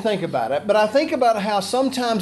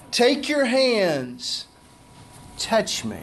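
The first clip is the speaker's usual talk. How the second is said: tender invitation; slower than usual. Acted. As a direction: gently coax him closer. Jesus inviting Thomas.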